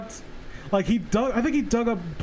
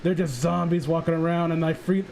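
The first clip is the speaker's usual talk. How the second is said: mock Jeff the Killer; 2 semitones lower than usual. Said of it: "Jeff the Killer has dialogue".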